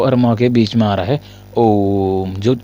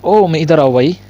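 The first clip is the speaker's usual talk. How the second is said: louder, higher held call; drawn-out call; 5 semitones higher, 4 dB louder, slower than usual. Shown as a demonstration. Teacher demonstrating a long drawn-out call, louder and higher. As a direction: stretch the name like a long shout. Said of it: "थोड़ा सा देर तक बोल रहे हैं".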